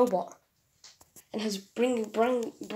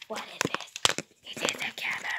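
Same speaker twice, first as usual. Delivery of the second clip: toy robot voice; 7 semitones lower, 10 dB quieter than usual. Acted. Robot grabs the camera.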